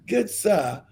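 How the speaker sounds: a hint of a British accent, lightly done. Mocking the British, a faint British accent. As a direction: try a proper British accent. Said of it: "let me get my British accent right".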